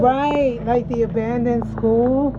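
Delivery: excited loud. Real, not acted. Reacting to creepy building.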